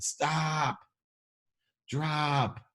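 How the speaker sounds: sharp high stop, drop; urgent self-command. Retold or imitated. Telling himself mid-dial, sharp high command. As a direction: snap yourself out of it. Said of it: "all of a sudden I said".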